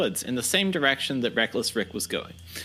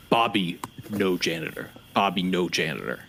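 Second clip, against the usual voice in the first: simple-minded Bobby; 6 semitones lower than usual. Acted. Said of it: "he says".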